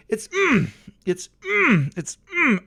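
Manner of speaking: high, breathy-sounding swoon between words; dreamy high moans of delight. Real, not acted. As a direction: savour it, lost for words.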